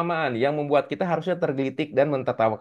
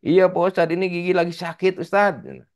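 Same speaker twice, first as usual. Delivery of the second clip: Udin complaining; 5 semitones higher than usual. Acted. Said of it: "punten ya kalau nggak mirip ya".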